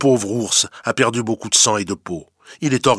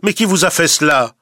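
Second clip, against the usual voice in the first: higher, louder shocked outcry; shocked cry; 8 semitones higher, 5 dB louder than usual. A narrator's reading. Animals at court crying out at the bloodied bear, shocked. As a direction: cry out in alarm at the wounds. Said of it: "il s'écrie".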